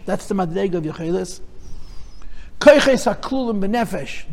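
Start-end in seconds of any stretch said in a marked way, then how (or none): 2.6-4.3 Koiches stressed, the phrase taken slowly. Shown as a demonstration. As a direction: lean on the opening word Koiches, then fall away. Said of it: "the emphasis is on the word Koyach".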